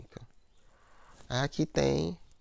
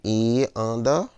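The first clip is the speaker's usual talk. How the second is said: E ANDA slow, loud and drawn out; joined vowels in scansion; 5 dB louder, much slower than usual. Shown as a demonstration. Teacher scans the verse, E ANDA joined, slow and loud. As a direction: stretch E into ANDA, loudly. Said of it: "que é só em uma".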